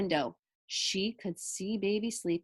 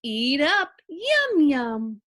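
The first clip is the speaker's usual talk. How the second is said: sleepy mother; 2 semitones higher, 6 dB louder, much slower than usual. Acted. Mrs Watson sleep-talking.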